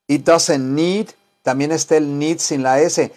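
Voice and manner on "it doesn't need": slowly, doesn't drawn out; slow model sentence. Shown as a demonstration. (despacio, alargando "doesn't")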